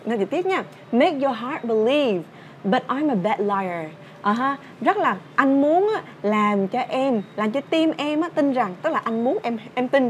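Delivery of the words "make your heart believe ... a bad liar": slow lyric read-out. Shown as a demonstration. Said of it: "bài hát này như sau ạ".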